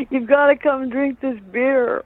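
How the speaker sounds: lightly acted giddy invitation; excited retold urging. Brother urging her over, retold.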